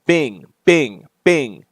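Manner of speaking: falling spoken bings; imitated alert chime. Player voicing the game's Bat computer alert, imitated chime. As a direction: mimic a notification going off.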